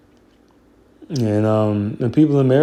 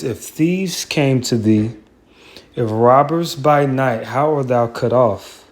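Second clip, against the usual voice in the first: scripture reading; 2 semitones higher than usual. Acted. Reading Obadiah scripture aloud.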